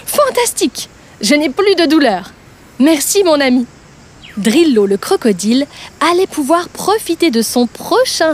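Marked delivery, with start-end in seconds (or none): 0.1-3.7 joyful exclamation. Acted. Crocodile thanking the bird, pain gone, joyful. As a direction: exclaim with delight. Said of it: "Il s'écria".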